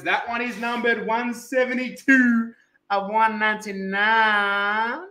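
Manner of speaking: drawn-out showman's naming; slowing, savoured announcement; announcer call. Acted.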